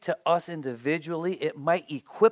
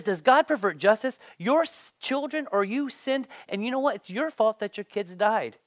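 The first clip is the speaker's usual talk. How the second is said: blunt accuser; 5 semitones higher than usual. Retold or imitated. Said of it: "He says".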